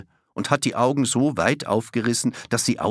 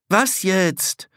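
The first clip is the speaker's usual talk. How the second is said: put-on high, sharp child's question, slightly cheeky; a bit snippy; 11 semitones higher, 5 dB louder than usual. A narrator's reading. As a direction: toss it back a touch rudely. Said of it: "fast ein bisschen patzig".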